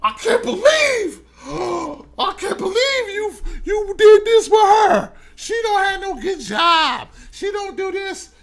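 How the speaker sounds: gasp, then shriek it at him in disbelief; shocked betrayed wife. Acted. Wife catching her man with another woman, gasping and shrieking in shock.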